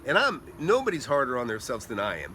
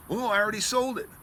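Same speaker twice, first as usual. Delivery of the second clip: higher put-on voice for the seller; airy mock reply, pitched up; imitated seller; 7 semitones higher, 3 dB louder than usual. Seller breaking news to hopeful buyer, offhand.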